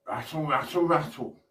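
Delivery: quick rhythmic rattle chant; snake impression. Shown as a demonstration. Showman leading everyone in a snake impression, light rattling chant. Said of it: "do an impression of a snake".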